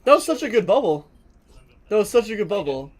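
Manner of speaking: loud, high excited praise. Real, not acted. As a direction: hype up the great play. Praising teammate's great bubble play.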